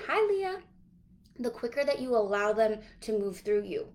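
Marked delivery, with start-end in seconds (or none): 0.1-0.6 bright live greeting. Real, not acted. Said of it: "greets a live viewer mid-sentence".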